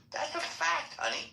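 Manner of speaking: sassy. Real, not acted. Sassy retort.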